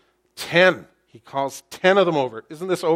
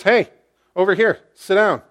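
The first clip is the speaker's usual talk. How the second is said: louder, higher summons; commanding call; 6 semitones higher, 9 dB louder than usual. Acted. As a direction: wave the elders over with authority. Boaz summons the town elders.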